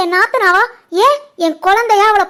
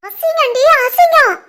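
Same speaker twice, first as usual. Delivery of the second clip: disgusted scolding; 4 semitones higher, slower than usual. Acted. Mother scolds daughter over gossip.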